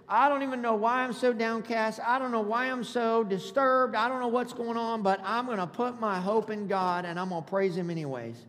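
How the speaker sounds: preacher's emphatic paraphrase, settling at the end; emphatic preaching. Acted. Preacher paraphrasing the discouraged psalmist for the congregation, emphatic preaching. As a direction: preach it with conviction.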